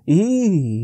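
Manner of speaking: high squeal of pain from the hare; a short pained shriek; bitter cry. A narrator's reading. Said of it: "he cried bitterly".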